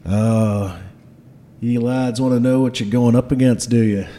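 ominous Scottish dwarf boss; Garm. Acted. Dwarf boss warning his lads about danger, Scottish accent. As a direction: build suspense in a Scottish accent. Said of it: "has a Scottish accent".

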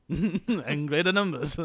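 put-on slow echo of an old Jedi; Alec Guinness. Host echoing the Jedi quote amid laughter, slow mock impression. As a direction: play at the old master's voice, drawn out. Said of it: "Sir Alec McGuinness".

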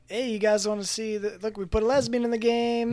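mocking over-eager announcement; mock showboating. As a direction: show it off like an eager huckster. Mocks showboating developers in acted quote.

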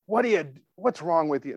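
mock scolding question; harsh scolding. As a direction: mildly imitate an impatient telling-off. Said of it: "God's not like".

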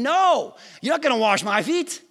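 high, loud NO, then indignant objection; protesting refusal. Acted. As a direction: protest like a shocked disciple. Acting Peter refusing Jesus's foot-washing.

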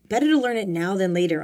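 loud opening that falls away; shouted lecturing. A narrator's reading. Bob shouting at his inexperienced rescue crew. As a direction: raise the voice to lecture them. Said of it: "Italian Bob shouted".

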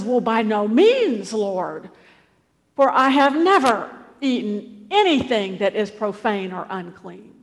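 loud, emphatic protest, trailing down at the end; mildly acted horror, hitting MEANS and NEVER; horrified refusal. Peter refusing the Lord's command, horrified. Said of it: "Peter is horrified".

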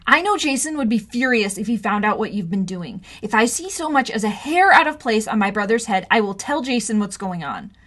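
angry warning; stern threat. Acted. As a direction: lay down the law. Threatening both bullies.

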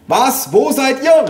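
high, loud baffled shout; calling into phone. A narrator's reading. Mother to grandparents on the phone, shouting. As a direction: shout down the line to the hard of hearing. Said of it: "rief meine Mutter ans Telefon".

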